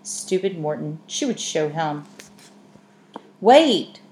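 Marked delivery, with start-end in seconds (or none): 3.4-4.0 high, loud call across the street. Acted. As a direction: stop her from far off with one shout. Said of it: "called a voice".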